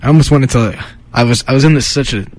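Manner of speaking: mock Italian-American East Coast accent; put-on Italian-ish accent. Radio co-host recapping the playlist, in a put-on Italian-ish accent. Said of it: "it's Italian accent. Whatever this, whatever accent this is".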